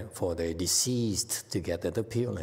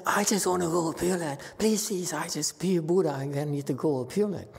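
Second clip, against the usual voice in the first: lightly voiced old woman, higher and begging; a hint of a begging old woman; pleading old woman; 6 semitones higher than usual. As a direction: mimic a desperate old devotee, lightly. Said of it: "they say".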